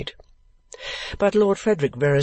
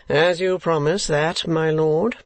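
slow, higher, feigned reluctance; 4 semitones higher, slower than usual. Acted. Ralph yielding to his client, feigned reluctance. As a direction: give in slowly, feigning reluctance. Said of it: "with feigned reluctance".

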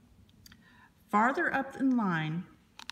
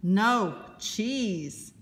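pirate yell; 3 semitones higher, 3 dB louder, much slower than usual. Acted. Pirate yelling at the camera elf, hammed-up yell. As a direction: shout it like a pirate who won't be told. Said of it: "He will yell".

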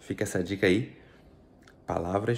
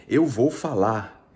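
slow and louder, each word laid out; slow example phrase; 3 semitones higher, 8 dB louder, much slower than usual. Shown as a demonstration. Teacher giving a slow, louder example to the class. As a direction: spell it out slowly for the students. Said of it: "quando ele vai escrever".

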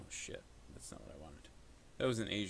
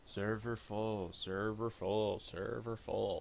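robotic repeat; slower than usual. Pretend. Mocking repeated error message.

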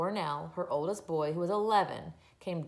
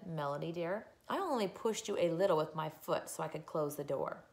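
calm mother; 5 dB quieter than usual. Acted. Mother calmly soothing screaming child.

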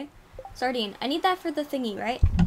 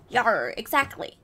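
slow, louder pirate growl of yar; 5 dB louder, slower than usual. Acted. Fisherman agrees in a slow mock pirate voice. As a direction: drawl it like an old pirate. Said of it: "call me lad".

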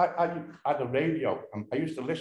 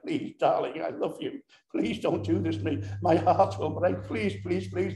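begging lover; 4 semitones higher than usual. Retold or imitated. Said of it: "he's begging her, he's beseeching her".

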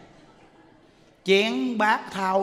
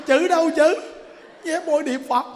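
protesting; 7 semitones higher, 3 dB louder than usual. Retold or imitated. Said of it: "Nó".

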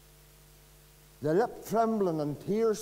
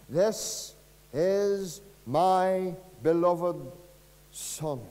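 slow reverent quote; 3 dB louder, much slower than usual. Acted. Quoting God's words from scripture.

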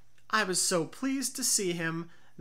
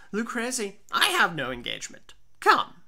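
put-on insistent drunk Fortunato; 5 dB louder than usual. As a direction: brush him aside and insist.

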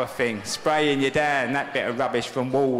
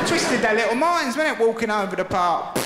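cheeky dog voice; 10 semitones higher than usual. Pretend. Dog voiced taunting owner.

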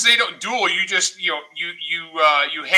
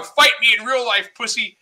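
mild mock yell, pitched up; higher-voiced imitation of a screaming challenge; retold screaming; 4 semitones higher than usual. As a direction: imitate an enraged kid gamer, half-strength. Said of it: "he starts screaming about how".

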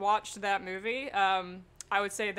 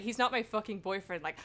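passionate declaration; 7 dB louder than usual. Retold or imitated. Acted impassioned movie monologue.

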